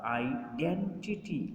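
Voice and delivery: آئیڈینٹیٹی with the second syllable ڈین stressed, not آئی; stress demo. Shown as a demonstration. Teacher demonstrating آئیڈینٹیٹی with the stress on ڈین. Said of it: "جو ڈینٹ ہے اس پر ہمارا زور ہوگا".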